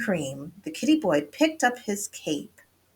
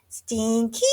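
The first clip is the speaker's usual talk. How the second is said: calling out; 5 semitones higher than usual. A narrator's reading. Kitty boy seeks his old amigos, calling out. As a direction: call to friends out of sight. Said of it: "called out Skippy John Jones".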